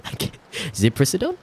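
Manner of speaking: stumbling over ziprasidone with a laugh; laughing at the word. Real, not acted. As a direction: break up laughing at the drug name.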